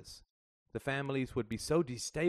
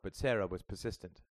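ordinary delivery

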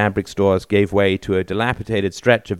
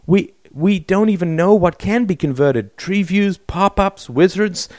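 agitated; 10 semitones higher than usual. A narrator's reading. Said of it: "shook his head violently".

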